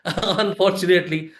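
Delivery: said through a short laugh; laughing at his own admission. Real, not acted. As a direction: chuckle the word out ruefully. Rueful repeat after audience laugh.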